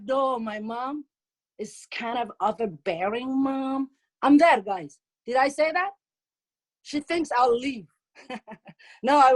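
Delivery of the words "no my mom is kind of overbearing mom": slow, lightly voiced daughter; imitated daughter. Daughter describing her mom on the phone, lightly imitated and drawn out. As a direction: mimic a daughter's drawn-out complaint. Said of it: "she'd be like".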